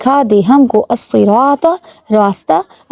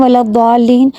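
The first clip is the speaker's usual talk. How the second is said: ولا الضالین said hurriedly; hasty ولا الضالین; rushed wrong way. Shown as a demonstration. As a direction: rush ولا الضالین without the long vowel. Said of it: "جلدی کرتے ہیں".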